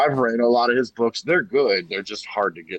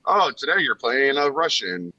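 higher-pitched, lightly acted movie-star quote; Sean Connery; 4 semitones higher than usual. Film star handed another role, lightly mock-cheerful. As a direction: casually announce the part, a little higher. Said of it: "he's like".

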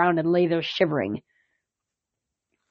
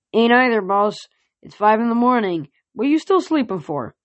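cheeky horse voice; 4 semitones higher than usual. Acted. Cheeky pegasus voice.

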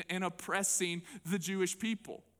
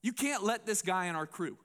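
upset protest; 4 semitones higher than usual. Retold or imitated. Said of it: "I can just imagine Peter being like".

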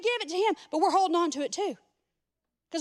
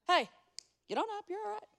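laughing; 3 semitones higher, 5 dB quieter, faster than usual. Retold or imitated. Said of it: "Jesus raising Lazarus".

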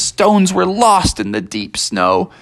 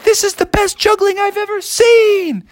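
high, excited praise; wowed by the juggling; amazed praise. Acted. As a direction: moose delighted, high. Moose praises at hyperspeed.

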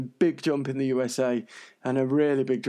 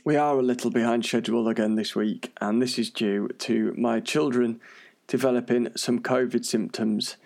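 wheezing, breathing heard through speech; wheezy voice. Real, not acted. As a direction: talk through a wheezy, ill chest. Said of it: "the kind of wheezing and breathing that you can hear".

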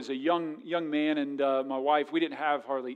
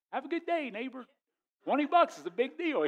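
sarcastic farewell; 9 semitones higher than usual. Retold or imitated. Sarcastic reply to neighbor.

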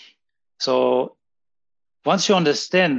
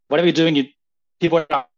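laggy video call; 4 dB louder, faster than usual. Real, not acted. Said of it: "Your, your signal kinda cutting out".

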